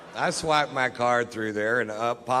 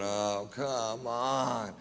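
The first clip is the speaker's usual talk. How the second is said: weary groan; 5 dB quieter, much slower than usual. Retold or imitated. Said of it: "I'm just sitting there going".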